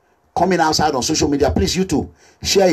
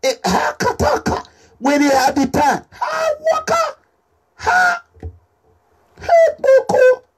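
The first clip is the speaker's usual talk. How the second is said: laughing gibberish; slower than usual. Real, not acted. Laughing nonsense sounds.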